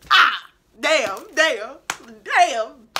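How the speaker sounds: loud, frustrated exclamations; exasperated outburst. Real, not acted. Vlogger venting about her boss, loud exasperated cries. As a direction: blow off steam loudly.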